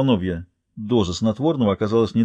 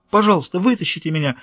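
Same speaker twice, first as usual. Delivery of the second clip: pleading; 6 semitones higher than usual. Acted. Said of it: "воздевала к ней руки бедняжка".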